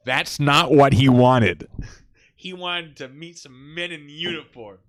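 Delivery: loud and slow, laughing midway; emphatic comic declaration; emphatic punchline. Real, not acted. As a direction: boom it out slowly for comic effect. Comic punchline about what he wanted.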